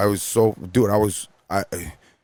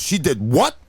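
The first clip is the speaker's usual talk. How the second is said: higher, incredulous rising question; disbelief; 5 semitones higher, slower than usual. Retold or imitated. Coordinator hears from DJ what guest did, in disbelief. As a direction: imitate her appalled double-take.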